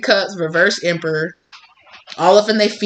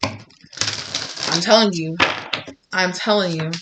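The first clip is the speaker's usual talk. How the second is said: slow emphatic; 4 dB quieter, slower than usual. Real, not acted. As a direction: lean on it slowly. Emphatic repetition.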